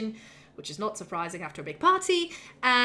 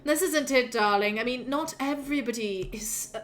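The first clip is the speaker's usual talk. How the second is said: sighing, drawn-out "darling"; a touch of a bored aristocrat; languid sighing artsy drawl. Retold or imitated. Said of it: "Belloar sighs and goes like".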